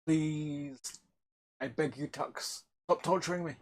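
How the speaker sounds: soft, pleading mock despair; mock begging. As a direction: beg the machine softly. Begging the computer, Tux.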